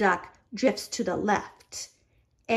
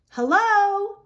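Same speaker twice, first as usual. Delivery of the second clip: high, loud call; captain calling hello; 11 semitones higher, 5 dB louder than usual. A narrator's reading. Ship captain calling out a cheery greeting. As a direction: hail them from the deck. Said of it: "calls the captain".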